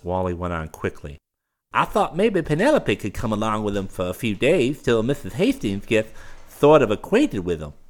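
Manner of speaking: high, eager nervous voice; a nervous fop pleading; fawning young man. A narrator's reading.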